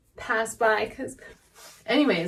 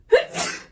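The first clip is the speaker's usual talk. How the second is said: sharp voiceless sneeze; acted sneeze, a bit louder; 5 dB louder than usual. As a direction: sneeze out in a burst. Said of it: "a little bit of a sneezing fit".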